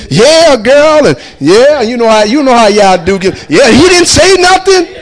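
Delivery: mock his wife venting to her sister; imitating wife gossiping. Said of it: "on the phone talking to my sister".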